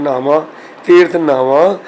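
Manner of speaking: "ਨਹਾਵਾਂ" with h after n and a nasalised final aan; h and nasal ending. Shown as a demonstration. Teacher models the corrected reading, "ਨਹਾਵਾਂ" nasal at the end. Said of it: "ਤੇ ਨੰਨੇ ਦੇ ਹੇਠ ਹਾਹੇ ਦਾ ਉਚਾਰਨ ਕਰਨਾ ਹੈ".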